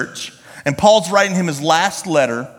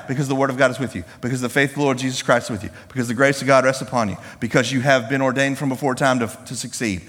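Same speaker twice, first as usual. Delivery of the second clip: quick, lower recital; hurried, understated run-through of expected answers; rattled-off stock answers; 3 semitones lower, faster than usual. Pretend. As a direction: reel off pious answers one after another. Lists predictable answers the audience would write.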